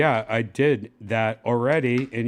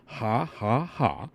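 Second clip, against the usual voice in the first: spaced-out, spoken "ha, ha, ha"; demonstrated laugh; slower than usual. Shown as a demonstration. User showing the assistant how to laugh, deliberate fake laugh. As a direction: separate each ha deliberately. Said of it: "where you're like".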